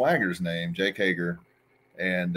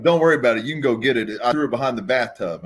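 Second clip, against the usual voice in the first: louder, higher carefree mock Sags; Sags's shrug; 3 semitones higher, 4 dB louder, much faster than usual. Sags telling her not to worry, carefree. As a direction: brush it off, totally unbothered. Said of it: "he's like".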